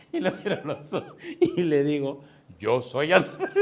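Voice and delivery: real laughter breaking into the words; laughing. Real, not acted. Preacher retelling his cheeky answer to the stranger, laughing. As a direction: tell it while cracking up.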